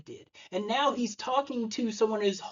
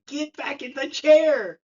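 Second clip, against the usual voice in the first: firm order; 7 semitones higher, 7 dB louder, slower than usual. Retold or imitated. Wife orders husband from camera.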